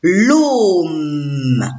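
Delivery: l'ôme drawn out, long O into a held M; syllabe en entier. Shown as a demonstration. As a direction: stretch l'ôme as one blended syllable. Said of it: "je lis la syllabe en entier". (l'ôme étiré, sons liés)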